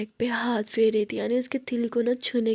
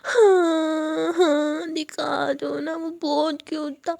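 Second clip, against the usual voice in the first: put-on whiny drunk pleading; 4 semitones higher, slower than usual. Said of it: "नेक में यूँ बाहें डाल गई थी".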